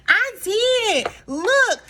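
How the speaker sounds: high, insistent protest; mock defensive; defensive Drew. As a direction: prove it, pleading. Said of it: "And Drew was like".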